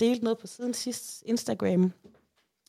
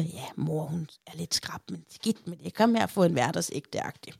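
imitating cosy grandma; 3 semitones lower, 4 dB quieter than usual. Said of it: "omfavnende bedstemor, der siger".

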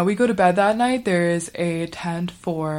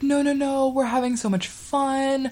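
higher-pitched mock reassurance; calming; 7 semitones higher than usual. Girls try to calm their crying tentmate, high coaxing reassurance. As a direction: coax a crying kid to cheer up. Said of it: "we try to calm her down".

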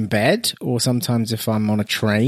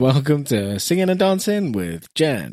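slow, lightly put-on show intro; voiceover artist; slower than usual. Co-host introducing a pretend show, light voiceover voice. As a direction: announce it slowly like an amateur voiceover. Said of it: "I'd be a good voiceover artist".

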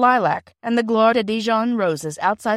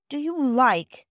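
hesitant, higher-pitched question; doubtful; 6 semitones higher, 3 dB louder, slower than usual. A narrator's reading. Bobby questions the others about a reward, doubtfully. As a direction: broach it with doubt. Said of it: "said Bobby doubtfully".

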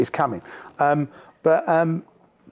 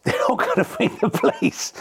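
laughing; 10 semitones higher than usual. Retold or imitated. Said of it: "I was going".

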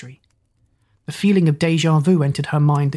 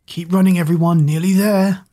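shouting; 4 dB louder than usual. Acted. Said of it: "Zack shouted".

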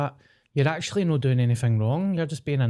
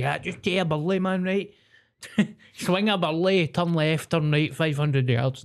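higher, laughing fake confidence; mock bluffing; 5 semitones higher than usual. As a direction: bluff directions cheerfully through a laugh. People pleaser bluffing directions.

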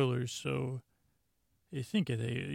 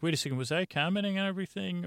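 sudden stoned realization; 6 semitones higher, much faster than usual. Retold or imitated. Stoned Data realizing himself.

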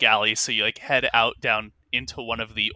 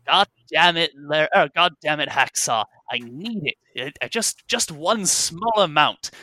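pleading captain; 2 semitones higher, 3 dB louder than usual. Acted. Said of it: "you hear the first voice saying".

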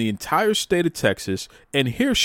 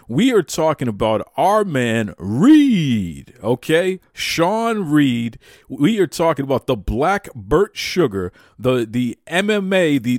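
hype man; 3 semitones higher than usual. Real, not acted. Host hypes up Reed, the singer, building excitedly. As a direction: hype him up like a ring announcer.

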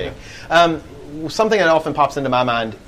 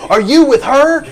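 higher, louder bouncer voice demanding; a hint of a stern bouncer; mock bouncer; 11 semitones higher, 6 dB louder than usual. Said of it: "bouncer looks at her and goes".

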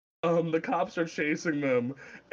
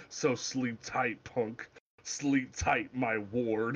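mock Clint Eastwood Batman; 3 semitones lower, 4 dB quieter, much slower than usual. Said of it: "Bruce goes".

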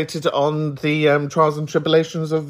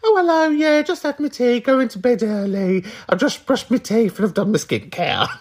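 mock boring caller; 8 semitones higher than usual. Host mocks the caller with a dull week, much higher put-on voice. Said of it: "you were like".

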